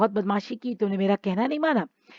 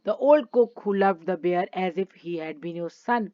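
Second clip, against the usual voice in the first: each word spaced out for the class; slow story reading; much slower than usual. Acted. Teacher reading the story to children, slow and clear. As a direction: read the English line slowly and clearly, like a storybook. Reads English story text.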